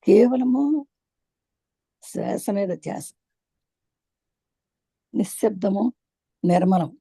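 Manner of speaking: measured meditation instructions with long pauses; guided meditation. Acted. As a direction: guide them onto the breath, drawing out key words. Leads a meditation. (నెమ్మదిగా విరామాలతో ధ్యాన మార్గదర్శనం)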